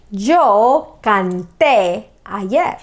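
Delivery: slow, carefully spaced "Yo canté ayer"; slow model sentence. Shown as a demonstration. Teacher modelling a sentence for students, slow. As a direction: model it slowly for the class.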